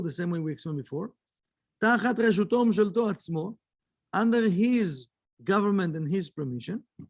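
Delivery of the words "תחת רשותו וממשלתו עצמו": quick recitation of a memorised text; reading the Hebrew text. Acted. Teacher reading the Kabbalah text aloud to students, fast recitation. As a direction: rattle off the Hebrew source at speed.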